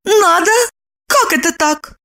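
high, confused woman's voice; bewildered. A narrator's reading. Lipochka bewildered by Roman. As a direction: ask in puzzlement. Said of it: "Липочка растерялась".

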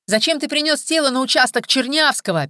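high, loud mimicking whine; mocking thin voice. Kolka mocks the police interrogators to Viktor, thin mocking voice. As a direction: parody the interrogator in a thin nasty voice. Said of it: "передразнил он тонким голосом".

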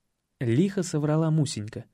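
ordinary delivery

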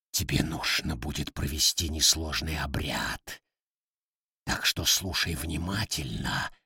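low, soft otherworldly voice; deep demon voice. Acted. Darkness speaks through hen.

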